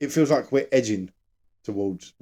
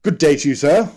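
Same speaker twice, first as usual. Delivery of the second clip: louder put-on posh British accent; mock posh British accent; 5 dB louder than usual. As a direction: play the formal upper-crust Brit. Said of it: "all the British talk like that".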